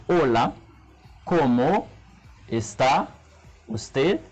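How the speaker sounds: ¿cómo está usted? with a long pause after each word; halting learner's ¿cómo está usted?, one word at a time; slow, word by word. Shown as a demonstration. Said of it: "pou m pale pran tan".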